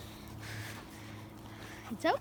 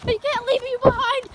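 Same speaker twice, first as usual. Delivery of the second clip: scared; 3 semitones higher, 4 dB louder than usual. Pretend. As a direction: beg not to be left. Left behind while fleeing.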